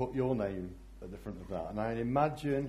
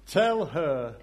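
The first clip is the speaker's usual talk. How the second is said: demanding; 4 semitones higher, 5 dB louder than usual. Acted. Martha demanding Jesus act.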